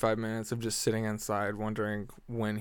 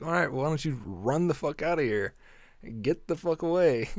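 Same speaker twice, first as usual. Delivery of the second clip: angry telling-off; 4 semitones higher than usual. Retold or imitated. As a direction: shoo him away, annoyed. Telling off the bragging guy.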